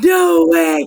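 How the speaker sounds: screaming with excitement. Thanking viewers, the speaker presses the giveaway button, excited screaming. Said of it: "I'm sorry, I'm screaming".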